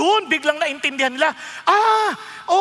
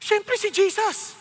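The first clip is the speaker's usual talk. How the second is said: slow firm answer; 4 semitones higher, much slower than usual. Retold or imitated. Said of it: "Sabi niya".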